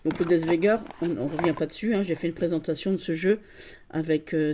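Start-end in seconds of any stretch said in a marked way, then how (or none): 0.2-0.8 Death Vega said like German Das Wagen; German pronunciation. Shown as a demonstration. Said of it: "je le prononce à l'allemande".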